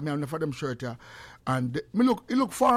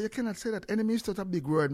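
lightly voiced wife, higher and softer; soft, higher retold protest; wife's objection; 5 semitones higher, 3 dB quieter, faster than usual. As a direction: quote a mildly objecting wife, pitched up and soft. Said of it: "And she say".

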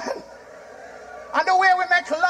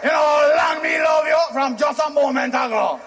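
Jamaican pickup shout. Acted. Jamaican romantic pickup line.

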